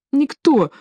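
high, quick denial; high protesting servant. A narrator's reading. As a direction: blurt it out in a scared servant voice. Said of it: "отвечал Леор".

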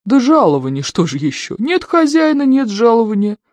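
high-pitched, argumentative retort; bickering. A narrator's reading. Servant's ghost squabbling with master over wages, bickering. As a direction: argue back, pitch jumping up high. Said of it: "перепираются два призрака".

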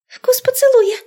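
very high squeaky blurt; squeak. A narrator's reading. Indira squeaking out the answer. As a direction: squeak it out from behind a book. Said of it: "пискнула Индира".

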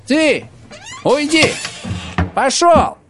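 sharp high shout to drive him out. Acted. Пепел гонит хозяина прочь, высоким криком.

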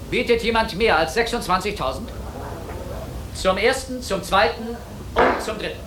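auctioneer. Acted. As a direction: run the auction, counting up bids. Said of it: "Der Auktionator".

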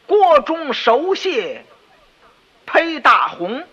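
锅中熟蟹披大红 read very slowly and high, word by word; slow, high recital of the line; reciting the couplet. Retold or imitated. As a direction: intone the couplet slowly, savouring the insult. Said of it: "你听听，是".

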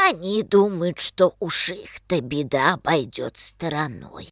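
put-on a tired, bitter very old man; creaking old man. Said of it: "проскрипел старик прокажённый".

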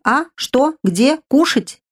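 squeaky, high, startled little spirit; startled creature. Acted. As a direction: jolt awake and squeak about food. Sleepy spirit wakes, startled. (писклявый испуганный дух)

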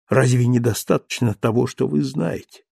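usual speaking voice

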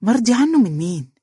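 a touch of sharp anger; sharp retort. A narrator's reading. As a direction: snap back the question. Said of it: "بحدة".

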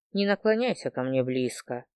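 low, soft, barely voiced warning; hushed whisper. A narrator's reading. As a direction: keep her back in a hush. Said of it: "прошептала я".

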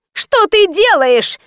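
high, drawn-out cry without much volume; yelling. A narrator's reading. Pharmacist to woman smashing the door, yelling. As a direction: cry out in high-pitched alarm. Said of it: "заорала провизорша".

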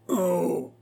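petit gémissement étouffé et aigu; un oh douloureux, à peine sorti; gémissement sourd. A narrator's reading. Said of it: "en poussant un sourd gémissement". (Charny blessé pousse un gémissement sourd)

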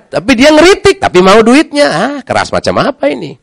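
usual speaking voice

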